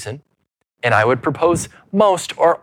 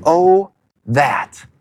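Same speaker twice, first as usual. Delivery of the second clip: lament cry; 2 semitones higher than usual. Shown as a demonstration. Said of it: "is the cry of a broken heart".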